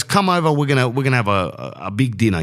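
sister calling everyone over with excitement; excited sister. Retold or imitated. Sister inviting to dinner.

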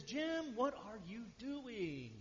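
a hint of a German accent, asking slowly. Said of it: "in his thick German accent".

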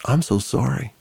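a touch of held-back tears; choking back tears. Retold or imitated. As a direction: imitate a tearful apology, mildly. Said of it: "she started choking back tears".

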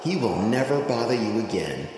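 soft shell voice. Acted. Shell speaks softly.

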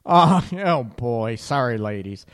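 giggling, can't hold it together; slap-happy laughing. Real, not acted. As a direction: laugh through the apology. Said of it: "Slap happy hour getting on here".

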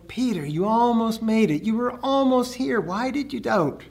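gentle teasing. Retold or imitated. Jesus kindly chiding Peter after the rescue, gently. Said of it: "Jesus was more going".

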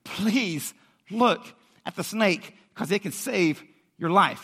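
slow, drawn-out plea; begging. Acted. Preacher acting a friend who begs Jet to look, slow pleading. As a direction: beg a friend earnestly, word by slow word. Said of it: "and beg him".

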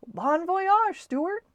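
high, loud farewell call; hollering. A narrator's reading. Friend seeing Stuart off, hollering. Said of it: "hollered his friend".

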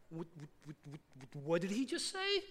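whispered-level stunned stutter, lifting at the end; hushed disbelief. Acted. Stunned listeners react to Jesus's claim, hushed disbelief. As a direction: stammer it very low, rising into the question. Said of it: "the room would have got quiet".

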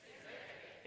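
voiceless "Significance"; hushed echo; whispered word. Shown as a demonstration. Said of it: "Say it with me".

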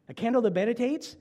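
mock amazement at the idea; incredulous. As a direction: question a candle in wonder. Preacher questions the candle.

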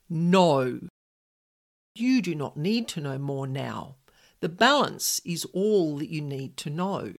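a touch of stern finality; mild firm refusal. Retold or imitated. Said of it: "met with a very firm".

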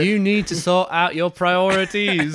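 loud, slow, high mock scolding; imitated yelling. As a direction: yell it in drawn-out mock outrage. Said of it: "he's yelling at Shan for being too bossy".

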